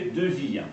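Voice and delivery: "viens" split into two syllables, vi-ens; "viens" with the i sounded as its own syllable; diaeresis. Shown as a demonstration. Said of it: "en deux temps".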